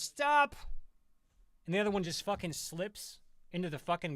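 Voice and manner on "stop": sudden high, loud yelled stop; shrieked high comic stop; mock shout. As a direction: bark it out like the news presenter. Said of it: "And she goes".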